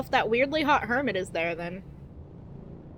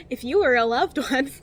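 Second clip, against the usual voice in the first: mock antidepressant commercial, deliberate and emphatic; drug-ad announcer. Warning patients about allergies, mock drug-ad announcer voice. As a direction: parody a TV medication warning. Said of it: "those fucking antidepressants that they advertise on T V".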